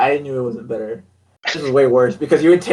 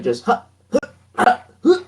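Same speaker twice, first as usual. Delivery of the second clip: robot grunts; 9 semitones higher than usual. Retold or imitated. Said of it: "it was, like".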